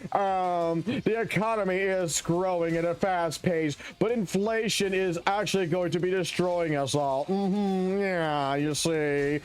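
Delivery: lightly hammed-up posh British accent, slow and prim; a mocking take on a posh British commentator. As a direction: sip tea and play a stuffy British pundit. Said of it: "British-ass motherfuckers".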